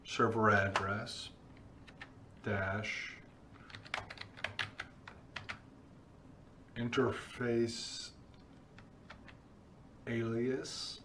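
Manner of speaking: slow word-by-word dictation while typing; dictating. Real, not acted. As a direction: read the command out piece by piece. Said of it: "we're gonna type this command".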